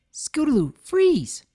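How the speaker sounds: very high, loud freeze order; filly ordering friend to freeze; insistent command. A narrator's reading. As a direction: stop her dead in her tracks. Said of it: "Sweetie insisted".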